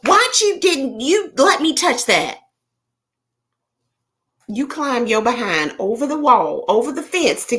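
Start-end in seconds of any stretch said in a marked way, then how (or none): 0.0-2.4 hammed-up high voice of the scalded woman; imagined complaint. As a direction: squeak it out like she blames him. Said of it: "I can hear her now".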